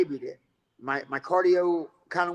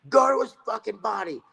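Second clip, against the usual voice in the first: higher, calling across the ring; corner shout; 6 semitones higher than usual. Retold or imitated. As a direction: yell the instruction to your fighter. Corner coaching, calling out to fighter.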